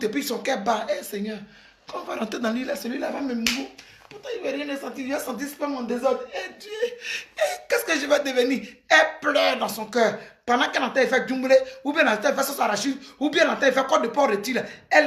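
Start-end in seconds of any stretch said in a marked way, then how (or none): 6.3-8.7 mock wailing. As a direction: lament to God through tears. Daughter crying inwardly, acted.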